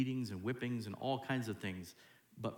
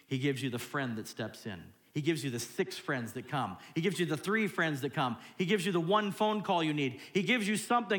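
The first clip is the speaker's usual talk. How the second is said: building excitement; 4 semitones higher, 4 dB louder than usual. Real, not acted. Preacher listing what God gives, building excitement. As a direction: start conversational, climb higher and louder. Preacher piling up God's gifts.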